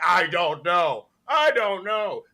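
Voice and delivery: drawn-out mock excuse; mocking quote. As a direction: imitate her feigned cluelessness, stretching it. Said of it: "don't, like".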